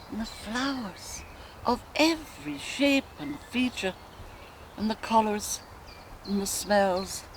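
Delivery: musing woman's dramatic monologue, long pauses; Molly Bloom. Acted. A wife recalling her courtship aloud, dreamy reverie with flashes of defiance. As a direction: drift from memory to memory, savouring each.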